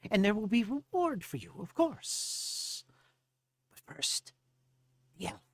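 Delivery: high-pitched gnome brushing off a question; evasive gnome. Acted. Gnome promising Ramirez a reward, high and evasive.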